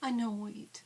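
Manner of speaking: mock prim ladylike delivery. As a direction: put on a dainty lady act to complain. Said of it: "Is that, is that ladylike enough?".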